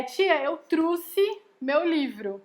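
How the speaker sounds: "trouxe" said as "trusse", with an oo vowel, slowly; children's mispronunciation. Retold or imitated. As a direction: imitate a pupil saying "trouxe" as "trusse". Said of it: "dizerem assim".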